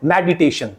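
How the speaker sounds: meditation as med-i-TAY-shun; correct syllable break. Shown as a demonstration. Teacher giving the correct form, meditation as med-i-tay-shun. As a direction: keep med together in meditation, light i after. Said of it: "it will be pronounced as".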